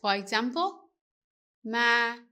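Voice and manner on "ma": ma said level before the rise; ma as the unmarked base before the sắc tone; rising tone demo. Shown as a demonstration. Teacher sets up the rising tone on ma. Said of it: "With the up tone, it goes up".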